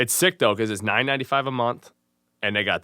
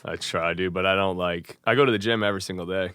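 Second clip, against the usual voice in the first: low, sheepish shrug; downbeat; 3 semitones lower than usual. Real, not acted. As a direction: play it down like a slacker. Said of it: "you said it as if you don't do anything".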